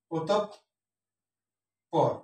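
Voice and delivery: অতঃপর as 'otop', long pause, 'por'; syllable by syllable. Shown as a demonstration. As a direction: break অতঃপর slowly before the second p. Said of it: "সঠিক হচ্ছে অতঃপর". (ওতোপ্... পর, ধীরে ভেঙে)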